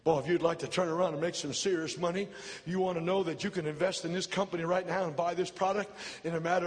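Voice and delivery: lightly mimicking a radio pitchman; radio commercial voice. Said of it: "And here's what it said".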